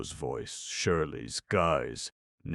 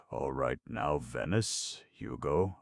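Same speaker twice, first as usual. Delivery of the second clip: husky call. Acted. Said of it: "Iris called very huskily".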